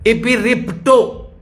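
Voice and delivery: इपिरिप्टो sounded out slowly, ee-pee-rip-to; Greek word said slowly. Shown as a demonstration. Preacher teaching the congregation a Greek word, slow. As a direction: say इपिरिप्टो slowly and clearly for dictation. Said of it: "Greek में पहले बोला है".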